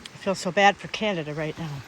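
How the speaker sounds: talking around a candy in the mouth; mouth full. Real, not acted. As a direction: speak with a lifesaver in your mouth. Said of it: "I have a lifesaver in my mouth".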